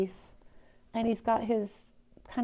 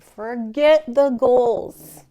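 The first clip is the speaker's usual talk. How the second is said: giving up; 4 semitones higher, 12 dB louder, much slower than usual. Retold or imitated. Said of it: "be like".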